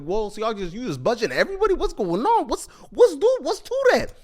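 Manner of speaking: high, rising amazed voice; girl in line watching them skip it, high and amazed; mock amazed girl. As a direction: play the stunned girl in line, pitch climbing. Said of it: "She's like".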